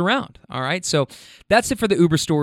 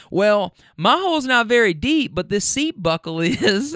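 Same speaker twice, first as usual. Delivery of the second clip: higher-pitched mock comeback; joking passenger; 7 semitones higher than usual. Middle passenger answering her friends, mock protest. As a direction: imitate a woman landing her comeback through a laugh.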